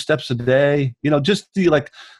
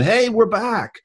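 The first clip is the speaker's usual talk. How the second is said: mock cheer; 12 semitones higher, slower than usual. Imagined announcement quote.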